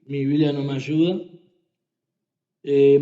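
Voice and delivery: ordinary talk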